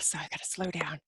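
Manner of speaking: whispered, winded aside; breathless whisper. Real, not acted. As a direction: drop to a tired whisper to herself. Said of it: "I'm talking so fast".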